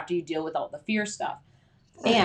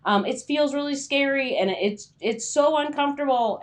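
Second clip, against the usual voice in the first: higher pitched mock whine of overwhelm; whiny anxious self; 6 semitones higher than usual. Writer complaining to herself in a higher whine. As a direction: play the scared writer who wants out.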